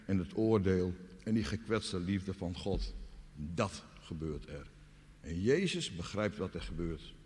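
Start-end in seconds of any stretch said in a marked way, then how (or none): none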